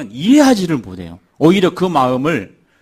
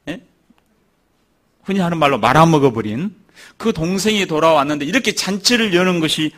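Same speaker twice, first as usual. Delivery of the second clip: mock indignant protest; 4 semitones higher than usual. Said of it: "막 아버지한테 대드는 거예요".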